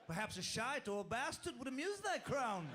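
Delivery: mock monarch granting permission to swear; king of profanity. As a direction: grant the boon like a pompous king. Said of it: "the king of profanity".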